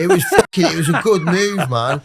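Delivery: amused laugh while boasting. Real, not acted. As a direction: laugh it out, proud of the stunt. Laughing at the memory.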